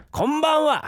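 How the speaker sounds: high, insistent visitor's hail; calling out. Pretend. Husband demanding a reply to his pretend visit, calling out. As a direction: call through the door for an answer. Repeats call to get an answer.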